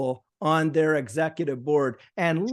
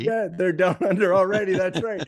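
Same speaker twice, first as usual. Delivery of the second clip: laughing; 3 semitones higher, 3 dB louder than usual. Real, not acted. Agreeing with the joke, laughing.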